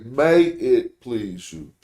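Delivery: "May it please you." said slowly, stress on "May", falling at the end; slow falling statement. Shown as a demonstration. Teacher giving the translators' version as a plain statement, falling tune. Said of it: "They say".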